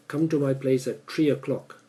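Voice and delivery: "three" said like "tree"; Singaporean TH. Shown as a demonstration. Teacher showing a Singaporean invitation, "three" pronounced "tree". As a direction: turn the th of "three" into a t. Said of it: "So people in Singapore tend to say T H".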